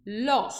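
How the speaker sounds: "Laure" said lɔ, open O, no final sound; "Laure" as lɔ, teacher demonstrating to class; French Laure. Shown as a demonstration. Teacher models "Laure" for students, clear lɔ. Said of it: "em francês a gente vai falar Laure".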